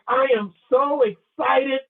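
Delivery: slow, drawn-out excited declaration; entertainingly excited. Shown as a demonstration. Speaker showing audience how to entertain prospects, excited. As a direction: sell the excitement, word by word. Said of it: "you gotta entertain. You gotta say things like".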